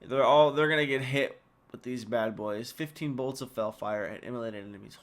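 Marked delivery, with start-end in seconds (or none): 2.7-5.0 "Fifteen" said softer and lower, savoured; awed re-read. Shown as a demonstration. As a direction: linger on "Fifteen bolts" in quiet awe. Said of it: "Holy crap".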